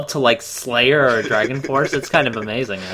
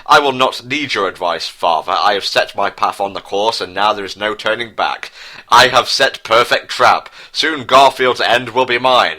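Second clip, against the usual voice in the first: put-on villain growing louder toward the end; scheming prince boasting of his trap; 3 dB louder than usual. Prince Harry rejects his father's advice, villain voice. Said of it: "Declared Prince Harry with cackles".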